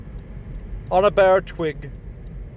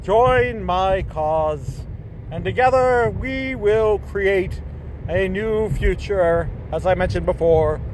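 grandiose villain proclamation; 2 semitones higher, slower than usual. Acted.

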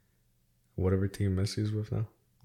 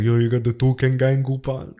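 imitating Peter; 4 semitones higher, 8 dB louder than usual. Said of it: "He's like".

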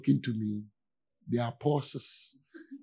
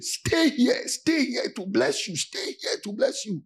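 gentle pastor's invitation; 9 semitones higher, slower than usual. Retold or imitated. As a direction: coax them to stay like a tender pastor. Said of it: "some pastor will tell you".

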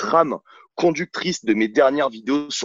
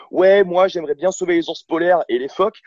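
mock-earnest eco-warrior, a bit louder and higher; mocking quote; 3 semitones higher, 3 dB louder than usual. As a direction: lightly parody a well-meaning do-gooder. Mocks hypocritical eco-minded TikTok users.

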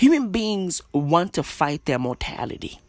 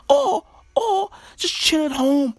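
laughing; 12 semitones higher than usual. Real, not acted. Laughing while listing wishes.

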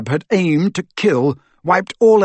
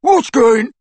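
loud, high jeering echo; mocking mimicry; 10 semitones higher, 6 dB louder than usual. A narrator's reading. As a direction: mimic the shouted question, cut short. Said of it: "mimicked Crabbe".

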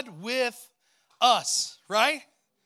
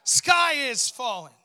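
loud, frantic cry of a little chicken; Chicken Little panicking; 5 dB louder than usual. Acted. Pastor voicing panicked Chicken Little to the congregation, loud and frantic. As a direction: shout it like the sky is really falling. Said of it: "and he said".

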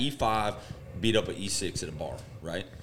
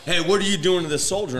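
1 mock MP challenge; 8 semitones higher, 6 dB louder than usual. MPs confronting him.

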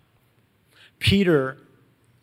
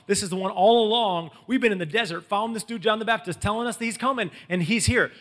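mildly frantic, higher-pitched retold excitement; freaking out; 5 semitones higher than usual. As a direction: build with the thrill of the news. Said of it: "So Andrew's freaking out".

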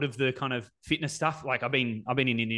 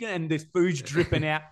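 mouth full; 3 semitones higher than usual. Shown as a demonstration. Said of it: "with my mouth full".

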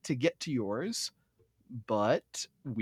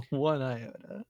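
laughing, a bit slower; 7 dB quieter, slower than usual. Shown as a demonstration. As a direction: chuckle the words out.

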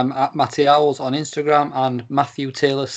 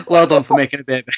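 laughing; faster than usual. Real, not acted. Joking congratulations.

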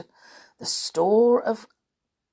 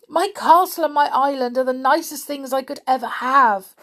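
high voice breaking into tears; tearful; 6 semitones higher, 5 dB louder than usual. A narrator's reading. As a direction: plead through the tears. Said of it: "cried poor George".

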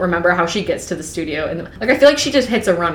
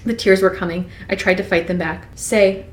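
steady storytelling read; reading Twilight aloud to a co-host; novel read aloud; 2 semitones lower than usual. Acted. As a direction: read it like an audiobook chapter.

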